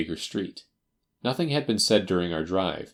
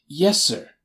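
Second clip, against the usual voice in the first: high, loud anxious assent; nervous man's keen reply; eager little man; 9 semitones higher, 5 dB louder than usual. Acted. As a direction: answer eagerly, pitched high. Ryder answers.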